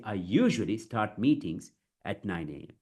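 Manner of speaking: deliberate, with a pause before the last phrase; phrase-by-phrase model reading; chunked delivery. Shown as a demonstration. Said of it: "you have to break it".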